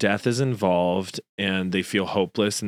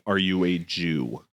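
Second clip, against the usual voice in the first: scared; 4 semitones lower, slower than usual. Shown as a demonstration. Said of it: "That feels scared".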